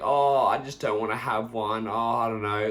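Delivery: mock wishy-washy refusal; willy-nilly. Drinker wavering under peer pressure, willy-nilly. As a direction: hedge it, with no conviction. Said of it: "you saying that willy-nilly".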